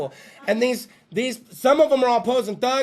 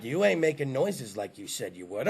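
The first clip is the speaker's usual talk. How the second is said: mock complaining guy; 11 semitones lower, 10 dB quieter than usual. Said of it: "halfway through it he's like".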